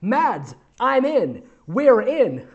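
high, joyful announcement; lightly hammed-up celebration; acted excitement. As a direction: punch each short phrase with glee. Character's joyful announcement to friend.

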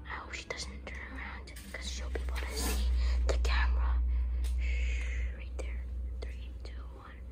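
hushed whisper near target. Real, not acted. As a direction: secret prankster whisper. Whispering to hide from sister.

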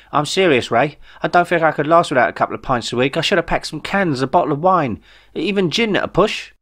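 a worked-up Jeff with big news. Acted. Jeff pleads about his pints.

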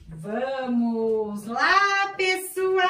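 high excited sing-song reveal. Real, not acted. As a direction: build up the surprise, laughing. Surprise reveal for the kids.

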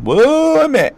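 전라도 사투리로 높게 외치는 "웜에!"; Jeolla dialect shout. Retold or imitated. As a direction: belt "웜에!" as the classic Jeolla call. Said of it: "전라도 하면 떠오르는 그게 있잖아".

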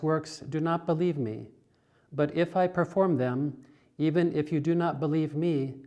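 measured, deliberate scripture reading; Gospel proclamation. Real, not acted. Minister reading John's Gospel to the congregation, measured proclamation. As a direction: proclaim it phrase by phrase with steady projection.

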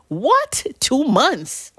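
high, incredulous What; shocked disbelief. Real, not acted. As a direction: gasp out the question in disbelief. Shocked at the nurse's delay.

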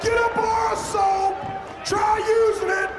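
gruff shouted brag; wrestling promo. Acted. Shouted one-man gang promo.

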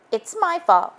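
high, small spider voice; Spider confessing. Acted. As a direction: own up timidly as Spider.

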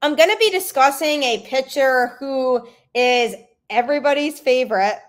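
dry mock praise; sarcastic. Real, not acted. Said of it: "sense the sarcasm in that statement".

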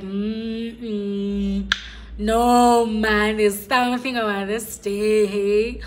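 loud, thrilled self-quote; loud giddy morning cry; excited exclamation. Retold or imitated. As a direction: burst out with excitement about the day. Excited quote of herself on waking.

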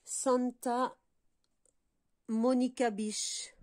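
slow, careful English with a French accent; mauvais accent anglais. Real, not acted. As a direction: say the English name slowly in a poor French-accented English. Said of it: "J'ai un accent pourri d'anglais". (mauvais accent français en anglais)

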